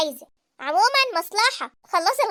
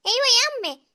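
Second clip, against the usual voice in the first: calling out; 4 semitones higher than usual. Acted. Calls out to mother offstage.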